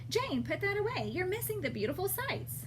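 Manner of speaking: put-on a parent snapping at a kid on her phone; stern mom. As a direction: call out like an exasperated parent. Parent scolding voiced in story.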